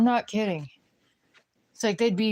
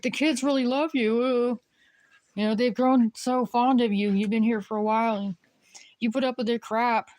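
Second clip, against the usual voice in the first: higher, sugary plea from the mother; pleading mom; 4 semitones higher than usual. Retold or imitated. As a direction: coax the nanny to stay, pitched up. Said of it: "It's like".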